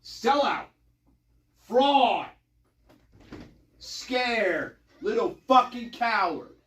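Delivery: soft, scornful insults under the breath; muttered insults. Real, not acted. Insulting the lawyer Cy Ray under his breath, a soft scornful mutter. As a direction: drop the voice and sneer each word.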